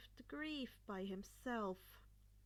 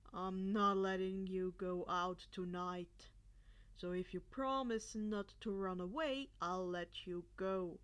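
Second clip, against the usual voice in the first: teacher voice; 5 semitones lower, 5 dB louder than usual. A narrator's reading. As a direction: lay down the rule like a strict teacher. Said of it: "his teacher voice".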